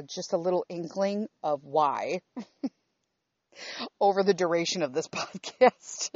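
laughing through the words; chuckling ruefully mid-sentence. Real, not acted. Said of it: "I have to laugh".

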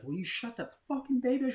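high-pitched imitation of a furious husband; exasperated yell. Husband yelling at wife over crying baby, mock furious yell. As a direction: act out a strained, rising yell.

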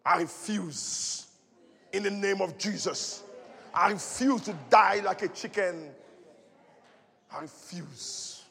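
low, slow, soft vow; hushed determined refusal; quiet refusal. Acted. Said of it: "declares refusal".

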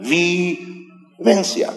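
"convivencia" split slowly, syllable by syllable; syllable-by-syllable emphasis. Real, not acted. Preacher drives home the key word to congregation, "convivencia" in slow separate syllables. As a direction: stretch out "convivencia" with gaps between syllables.

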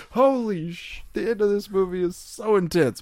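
high-pitched, hammed-up hype; mock amazement. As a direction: oversell the movie's ending like a cliffhanger. Mock cliffhanger teaser, acting amazed.

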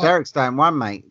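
put-on quoting in a New Zealand accent. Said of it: "a New Zealand accent".

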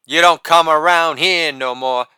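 put-on lightly crooned Southern accent; a hint of a Southern accent, crooning. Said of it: "croon in their best white Southern accent".

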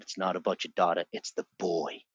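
low, softened voice of quiet revelation; gently imitating a whispered instruction; retold whisper. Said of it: "God whispered to me and said".

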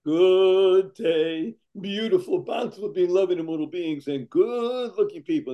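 big showman welcome, booming start; grand greeting. Acted. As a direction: greet them like a grand host.

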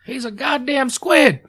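high, slow shocked shout; excited squid yell. Retold or imitated. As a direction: bellow it in disbelief. Quoting the movie scene.

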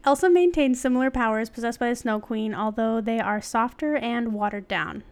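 measured, articulate reading; article read-aloud. Real, not acted. Host reading an article to co-host, read-aloud. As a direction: read it out like a written essay.

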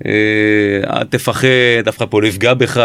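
lightly acted calm, slow coaxing; unhurried, nonchalant good-cop patter. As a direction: coax slowly with a touch of reassurance. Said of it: "בנונשלנטיות שלו, ברוגע שלו".

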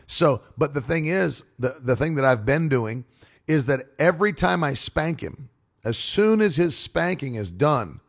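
normal talking voice

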